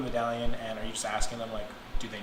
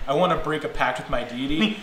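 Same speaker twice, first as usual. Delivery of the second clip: mock-loud announcement; playfully raised voice, a bit loud; pretty loudly; 3 semitones higher, 5 dB louder than usual. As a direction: blurt it out for the whole room. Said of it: "You say that pretty loudly".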